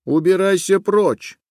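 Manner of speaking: put-on furious girl chasing off a boy; angry shout. A narrator's reading. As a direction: drive the boy away. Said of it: "закричала она".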